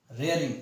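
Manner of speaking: रेयरिंग with "ray" at the start; model pronunciation. Shown as a demonstration. Teacher confirms the pronunciation, रेयरिंग said with "ray". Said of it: "ये इसका pronunciation होगा".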